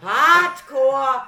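high, loud laughing cry; loud laughing yelp; laughing shout. Real, not acted. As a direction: blurt it out through laughter. Laughing outburst repeating word.

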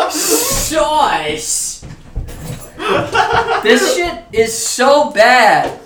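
high, laughing exasperation; laughing in disbelief. Real, not acted. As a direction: laugh through the mess. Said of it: "gamer rage".

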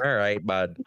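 All right said aw right with the L dropped. Shown as a demonstration. Friend showing Canadian all right, no L sound. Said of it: "there's no L in all right".

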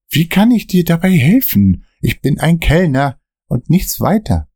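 nervy friend glancing at the mirror; nervous Dan. Acted.

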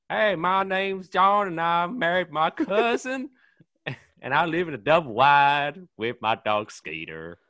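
high, loud, slow southern hick drawl; mock southern American redneck; mock American redneck accent. Shown as a demonstration. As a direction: ham up a hillbilly American accent. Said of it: "whenever anyone asks me to do an American accent".

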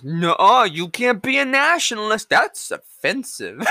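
whiny scolding voice, last words slowed; mock a prissy scold; mocking the union. Vlogger mocking the university union, whiny slow scolding. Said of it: "so the union says".

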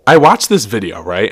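talking around a sip; just after a sip of drink; while sipping a drink. Real, not acted. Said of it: "let me take a sip of my vodka cran".

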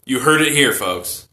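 loud, slow ring announcer hype. Pretend. Hyping the match to viewers.

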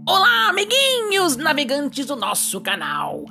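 put-on cheerful pirate host greeting kids; hammy pirate captain. (voz de pirata animado)

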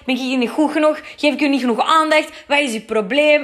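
replaying his outburst with a touch of heat; mock angry rant. Boyfriend berating her for facetiming, mildly acted anger. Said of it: "begint hij daar het ziekste tegen mij te schelden".

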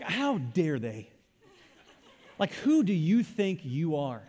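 slow, hammed-up outrage; mock indignation. Preacher imitates someone offended by a warning sign, mock indignation. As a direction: draw out the pretend offence. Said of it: "does it bring about rage in your heart?".

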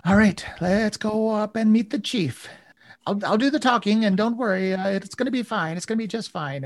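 high, eager kobold guide voice; chirpy little kobold promising it'll be fine; Sela reassuring. Acted. Kobold guide reassuring the party, high and bright.

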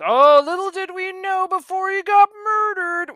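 high, loud, hammed-up foreshadowing voice; ominous narrator. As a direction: ham it up like a melodramatic narrator. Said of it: "to a broadcasting degree".

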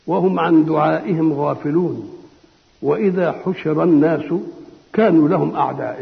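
slow, measured verse reading; Quranic recitation. Acted. A preacher recites the verse before explaining it, slowly. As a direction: recite each phrase deliberately.

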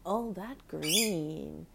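All that green stretched out very slowly; slowed pet talk. Real, not acted. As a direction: draw out All that green like a lullaby. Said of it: "talking to the bird".

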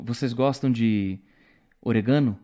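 "orégano" dito "oregâno", tônica no GA; acento deslocado. Retold or imitated. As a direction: jogue a tônica para o fim em "orégano". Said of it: "você muda o fonema". ("orégano" errado de propósito, como "oregâno")

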